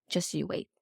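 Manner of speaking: a hushed, tender cosmic mother; soothing Mother Universe. Retold or imitated. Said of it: "the Mother Universe is like".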